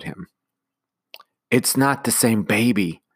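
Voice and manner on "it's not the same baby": usual speaking voice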